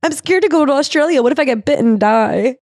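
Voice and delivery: high, hammed-up fear of Australia; mock scared traveler. A nervous American fears going to Australia: mock scared traveler. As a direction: fake panic about snakebite.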